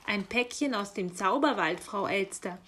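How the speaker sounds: strict, emphatic answer; stern raven. Acted. Raven answering the curious magpie, sternly. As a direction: put the magpie in her place. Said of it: "sagte der Rabe streng".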